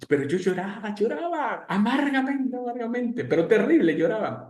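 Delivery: tono muy agudo de llanto dramatizado; relato exagerado. Retold or imitated. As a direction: exagera lo mucho que llorabas, con voz aguda. (exagerado, agudo y dramático)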